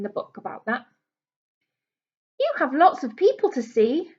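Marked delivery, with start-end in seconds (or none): 2.4-4.1 receptionist's voice. Acted. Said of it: "says the receptionist".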